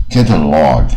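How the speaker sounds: "catalog" with curled tongue and long open "log"; teacher's careful "catalog"; model pronunciation. Shown as a demonstration. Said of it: "这样念".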